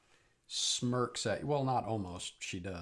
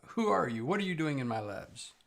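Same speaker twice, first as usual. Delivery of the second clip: suspicious demand; 4 semitones higher, 4 dB louder, faster than usual. Acted. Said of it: "she steps over to here and she says".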